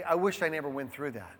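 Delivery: soft, fast wistful murmur; half-spoken regret under the breath; quiet musing. Pretend. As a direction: muse it quietly to yourself. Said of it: "go back and say".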